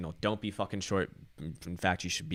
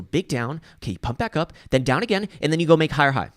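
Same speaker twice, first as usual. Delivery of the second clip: mock trader voice; 8 semitones higher, 10 dB louder than usual. Mocking traders' fractal logic.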